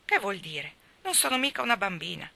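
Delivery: understated indignant cry; cried out. Acted. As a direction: protest she is no little girl. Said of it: "gridò la ingrata Nan".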